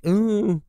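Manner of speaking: high-pitched mocking moan; put-on high "uhh"; mock dumb groan. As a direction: whine it like an offended complainer. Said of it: "they're just like".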